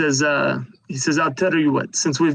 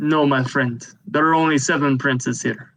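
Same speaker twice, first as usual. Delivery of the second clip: ordinary talk, nothing marked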